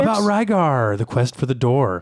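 big dramatic announcer; hammed-up cartoon announcer. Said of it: "you sound like the announcer".

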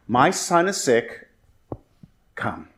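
no please, just a measured command; blunt demand. Acted. Official to Jesus about his sick son, slow and unapologetic. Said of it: "Not even a please".

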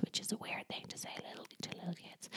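very soft, unvoiced whisper; whispered aside. Real, not acted. Commenting on talk to little kids, whispered.

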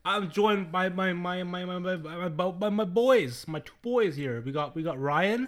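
slow drawn-out host introduction; game show host voice. Acted. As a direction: stretch it out like a showman. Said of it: "you gotta play it up a little bit".

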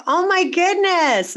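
high, loud, drawn-out disbelief; astonished. Retold or imitated. Host retells her reaction to an uncracked-egg confession, astonished. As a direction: stretch it out, aghast and amazed. Retold shock at inexperienced guest.

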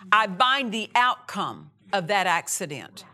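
firm, loud rebuking command; fierce commanding prayer. Retold or imitated. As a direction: command the devil with authority. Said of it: "So I said".

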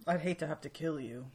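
low, understated delivery; Fitz. Acted. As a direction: deliver the threat low and even. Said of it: "a pretty good Fitz impersonation".

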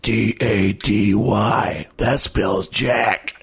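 put-on slow, childlike spelling; child voice. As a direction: spell it out slowly like a little kid.

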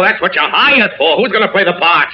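heated, high-pitched scolding; angry berating. Acted. Actor berates his agent.

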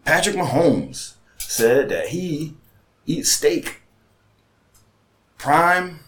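sports host building up to a question; high, loud setup with dramatic pauses, ending in a big question; Jacoby. Retold or imitated. Co-host quizzing his partner, high, drawn-out announcing. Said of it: "And Jacoby always has Jalen, he be like".

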